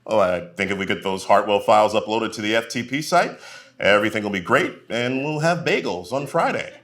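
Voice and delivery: mock upbeat meeting speak; lightly voiced cheerful middle manager; corporate office voice. Worker in a meeting, in mock corporate cheer. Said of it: "talk like a person you never thought".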